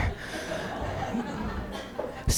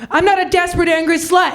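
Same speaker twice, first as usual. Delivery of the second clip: a raised, indignant declaration; mock outburst; 5 semitones higher, faster than usual. To David in his office, a raised indignant declaration. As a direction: announce it with wounded pride.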